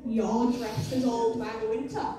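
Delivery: put-on slow, solemn old-lady pronouncement. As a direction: deliver it slowly, like an accusing old woman. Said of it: "she looks me in the eyes and goes".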